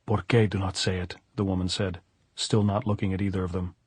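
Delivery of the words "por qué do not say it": put-on understated older woman's retort; lightly voiced, unmoved questioning; challenging echo. Pilar throws the plea back.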